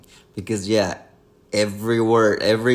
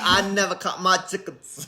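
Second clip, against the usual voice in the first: put-on Kentucky accent; 6 semitones higher than usual. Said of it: "you start going, like, all Kentucky".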